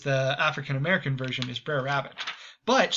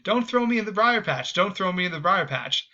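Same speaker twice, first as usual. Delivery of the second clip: mock pleading; 5 semitones higher than usual. Rabbit begging captor again and again, mock pleading. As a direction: ham up the desperate plea. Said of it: "he keeps saying it over and over".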